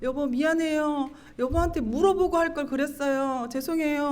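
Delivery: mildly sing-song, dutiful sorry; forced-smile apology. Retold or imitated. Wife apologizing to husband with forced laughter, strained politeness. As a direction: apologize through a put-on smile. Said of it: "억지로 웃으면서 남편한테 가서".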